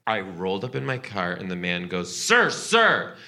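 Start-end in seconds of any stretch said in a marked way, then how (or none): 2.2-3.2 high, urgent mock call. Rental man stopping a nervous customer, urgent calling out. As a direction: imitate someone flagging a person down.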